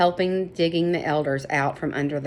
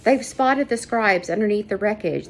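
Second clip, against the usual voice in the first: excitedly; 3 semitones higher than usual. Acted. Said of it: "the woman said excitedly".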